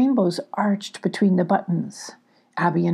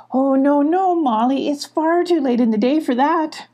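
arguing; 7 semitones higher than usual. Acted. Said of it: "argued Abby".

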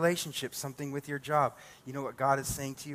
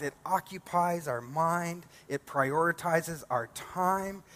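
slow emphatic preaching; 3 semitones higher, slower than usual. Acted.

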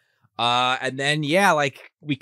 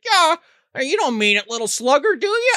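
high, wheedling fatherly plea; mock coaxing; 10 semitones higher than usual. Stepfather trying to talk the boy down, mock coaxing. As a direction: talk him down with put-on chumminess. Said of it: "he tried to talk him down first".

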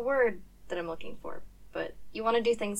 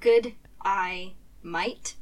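real Australian; 4 dB louder, much slower than usual. Shown as a demonstration. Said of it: "if you say that too fast".

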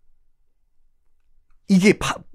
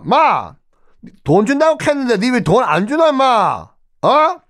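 화난 교황; 8 semitones higher than usual. Acted. 화난 교황의 전화.

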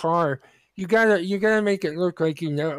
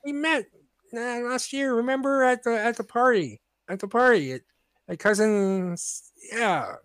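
fake-familiar greeting; 3 semitones higher than usual. Shown as a demonstration. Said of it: "you gotta be like".

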